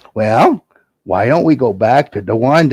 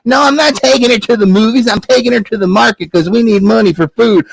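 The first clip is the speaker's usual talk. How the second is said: put-on indignant boy Jack; 8 semitones higher than usual. Jack answers.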